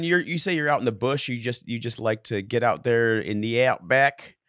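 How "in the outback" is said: attempted Australian accent. Shown as a demonstration. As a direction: put on an Australian twang for the place name. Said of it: "how'd that sound?".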